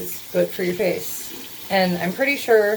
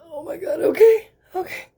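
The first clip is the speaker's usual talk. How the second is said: gasping, rising up into a laughing squeal; shocked gasp; 6 semitones higher, 4 dB louder than usual. Real, not acted. Seeing her new eyebrows in the mirror, gasping in shock. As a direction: gasp then break into a nervous laugh-cry.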